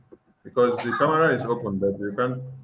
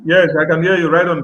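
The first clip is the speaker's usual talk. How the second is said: raised voice, louder for a bad line; to someone hard of hearing; 2 semitones higher, 8 dB louder than usual. Real, not acted. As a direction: speak up over a weak connection. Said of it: "I hear me now".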